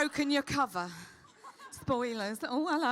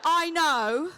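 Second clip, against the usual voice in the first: ordinary talk, nothing marked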